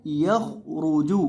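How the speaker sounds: यख रूजू slowly, with full, heavy kha and ra; heavy letters. Shown as a demonstration. Teacher modelling the word for pupils, heavy letters in यख रूजू. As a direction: thicken both kha and ra in यख रूजू. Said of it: "मोटा करेंगे और खौ को भी".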